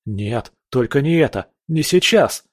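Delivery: rising desperate cry; panicked. Acted. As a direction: panic as he fades. Baby panics as grip weakens.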